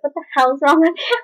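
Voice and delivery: high-pitched, startled grandma imitation; alarmed grandma. Grandma to granddaughter diving behind the sofa, alarmed. Grandma reacting to her dive.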